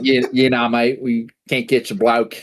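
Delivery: mild mock Australian accent; laid-back Australian shrug of a reply; Australian cop. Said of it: "the police are Australian".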